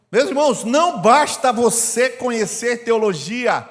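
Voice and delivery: loud, emphatic pulpit delivery; preaching at full force. Acted. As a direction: pound each phrase home to the church. Preacher driving home the kingdom.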